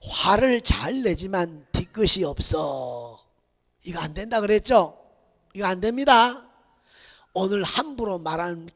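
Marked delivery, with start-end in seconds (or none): 0.0-3.2 mock excuse. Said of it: "맨 밑에 뭐라 그랬어요".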